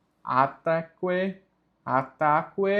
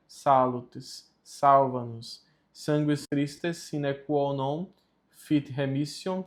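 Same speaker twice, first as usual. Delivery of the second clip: Latin litany prayer. Shown as a demonstration. Leading learners through the Latin litany to practise pronunciation, measured prayer recitation. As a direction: pray it steadily, each response settling downward.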